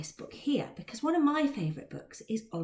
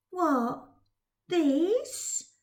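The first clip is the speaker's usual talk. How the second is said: teasing; 7 semitones higher than usual. Acted. Dodger teasing with the purse.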